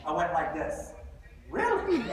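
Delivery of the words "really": surprised. Retold or imitated. Surprised reaction to her yes.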